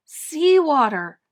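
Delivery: loud, slow, rising alarm; boy realizing the sea is coming in; alarmed cry. Acted. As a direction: let the horror burst out slowly. Boy discovers flooding salt water.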